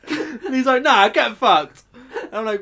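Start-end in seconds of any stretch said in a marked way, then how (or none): 0.8-1.8 loud, drawn-out, high retort; mock yell; imitated angry customer. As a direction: act out a belligerent brush-off, slowly. Retold abuse from angry customer.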